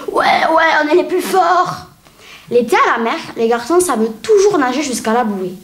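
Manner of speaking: a child grumbling about boys, lightly voiced; fussy kid complaining to an audience; little girl monologue. Performs a little-girl sketch.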